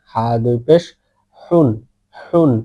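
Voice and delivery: হুন with the h made in the throat; careful throaty Arabic h in হুন. Shown as a demonstration. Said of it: "ভালো করে শেষ ভাগ থেকে বলবেন".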